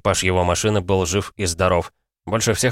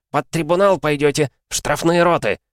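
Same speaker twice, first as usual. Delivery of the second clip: high, loud angry threat; furious threat; 8 semitones higher, 3 dB louder than usual. Acted. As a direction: hurl the threat of tribunal. Commissar threatens tribunal.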